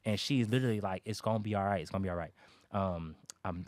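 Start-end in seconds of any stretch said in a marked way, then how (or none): 1.1-1.8 a hint of the wife soothing him; gentle reassurance. Wife comforting him in bed. 1.8-2.3 quieter repeat of the comfort; wife soothing him again, hushed; softer reassurance. Retold or imitated.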